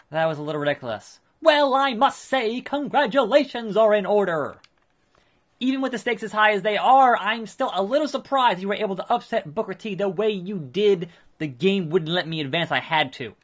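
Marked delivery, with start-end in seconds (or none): 1.4-11.1 lightly voiced smug wrestling manager, pitched higher; a hint of a slick, self-satisfied manager; Paul Heyman. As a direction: play a pompous promoter handing out praise. Voices Paul Heyman's game dialogue.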